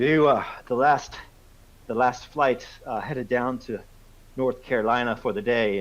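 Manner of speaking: put-on American-accented officer, pitched a little up; lightly acted American accent, relieved and courteous. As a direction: play an American policeman making a polite introduction. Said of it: "so he says with an American accent".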